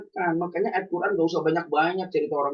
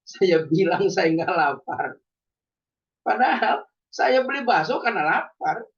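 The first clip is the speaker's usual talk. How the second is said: slow words through a laugh; amused, drawn-out admission; 4 dB louder, slower than usual. Real, not acted. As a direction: chuckle at the little lie. Laughing at his own fib.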